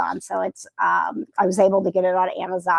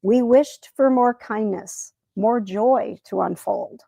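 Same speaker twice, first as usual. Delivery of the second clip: a gentle, lightly paced rhyming read-aloud with a few slowed lines; poem reading. Acted. A lightly voiced bedtime poem read to the viewers.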